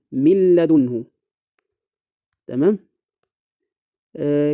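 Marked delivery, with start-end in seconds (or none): 0.1-1.0 من لدنه with the n fully merged into a doubled l; no trace of n in من لدنه, straight into a firm l; idgham without ghunna. Shown as a demonstration. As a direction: recite من لدنه as "mil-ladunhu", no nasal hum. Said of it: "كأنك بالضبط قرأت هكذا".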